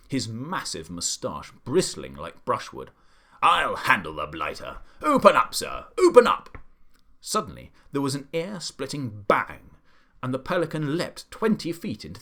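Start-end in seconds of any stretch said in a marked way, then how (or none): 3.4-6.6 furious shout. A narrator's reading. The Duke ordering the pelican to open up, shouting. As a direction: hammer the order home.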